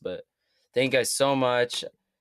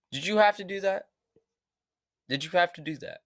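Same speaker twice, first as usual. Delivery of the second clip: mock exasperation; 6 semitones higher than usual. Real, not acted. Mock scolding a rapper after his verse.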